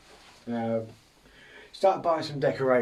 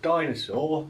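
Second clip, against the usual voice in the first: higher dinosaur voice, rising; dinosaur demo; 4 semitones higher than usual. Shown as a demonstration. Streamer proving it's not a zombie, dinosaur demonstration. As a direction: say it as a dinosaur, pitched up. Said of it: "See the difference?".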